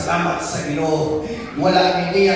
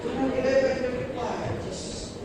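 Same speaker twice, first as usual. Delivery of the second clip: solemn hush; 4 semitones higher, 6 dB quieter than usual. Real, not acted. Repeat of verse, whispered name.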